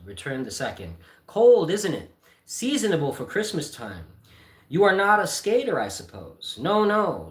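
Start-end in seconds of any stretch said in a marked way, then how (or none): 1.3-7.3 two rich men trading pleasantries; hammed-up businessmen; hearty small talk.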